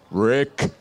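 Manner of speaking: slow, drawn-out villain proclamation; Skeletor voice. Acted. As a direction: announce it like a cartoon villain. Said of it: "known as Skeletor".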